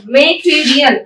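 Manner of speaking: मटेरियल in beats, मे-टे-री-अल; syllable by syllable. Shown as a demonstration. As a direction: sound out मटेरियल for learners as मे, टे, री, अल. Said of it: "break कर करके जो ma'am बोल रही हैं".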